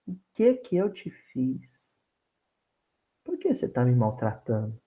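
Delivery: wife whispers softly in husband's ear; pillow voice. Shown as a demonstration. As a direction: murmur it tenderly in his ear. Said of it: "com voz de travesseiro".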